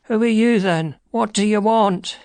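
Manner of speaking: high, nervous little man; quavering voice. A narrator's reading. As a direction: quaver it high, startled by a stranger. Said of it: "he asked in a quavering voice".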